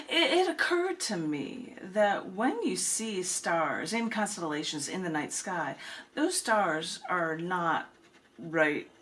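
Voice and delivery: recited as a poem with long pauses between lines; spoken-word poem recital; poetry reading. Acted. Reads Envision It in the Night Sky.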